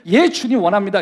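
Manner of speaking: loud, high, eager answer to the Lord; a believer's loud eager reply; eager loud yes. Shown as a demonstration. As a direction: shout the yes with joy. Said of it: "이것이 주님이 듣고 싶은 대답이에요".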